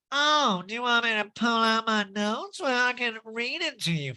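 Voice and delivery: high, excited nasal impression; mock-eager, pinched high voice; Erica Jane. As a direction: put on a stuffed-up, gleeful high voice. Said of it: "that Erica Jane imitation".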